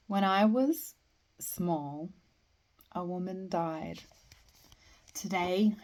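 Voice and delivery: measured poem recital with line breaks; poetry reading. Acted. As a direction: recite verse, pausing after each phrase. Reads a poem aloud.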